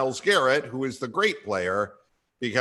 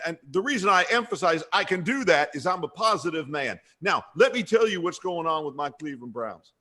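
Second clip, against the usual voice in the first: higher-pitched mock coach holding forth; Freddie Kitchens; 3 semitones higher than usual. Host spoofs coach's press conference, mock-insistent coach voice. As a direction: parody a coach insisting on his point. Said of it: "that Freddie Kitchens said".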